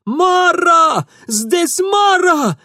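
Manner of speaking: high, loud terrified shout, slow on Здесь Мара; Ingvar shouting. A narrator's reading. Ingvar screams that the Mara is here, terrified. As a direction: scream the warning. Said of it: "а Ингвар заорал".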